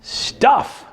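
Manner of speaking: breathy evasive answer with laugh; half-whispered guilty reply; sheepish mumble. Retold or imitated. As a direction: dodge the question sheepishly. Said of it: "I'm like".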